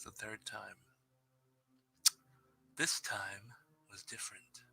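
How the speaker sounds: steady, hushed storytelling with whispered moments; spooky story narration. Acted. Streamer reading a viewer's ghost story aloud, hushed and eerie. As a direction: draw the listeners into a creepy tale.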